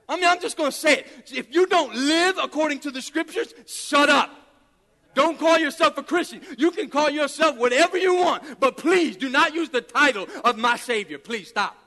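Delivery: loud, emphatic rebuke from the pulpit; full-force preaching. Real, not acted. Preacher rebuking false Christians, full-force preaching. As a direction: hammer each phrase with conviction.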